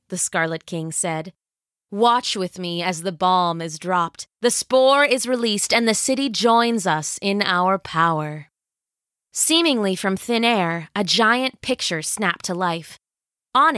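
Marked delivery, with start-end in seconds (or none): 1.9-8.5 scheming villain queen. Acted. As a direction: savor every word like a tyrant. Villain announces plan.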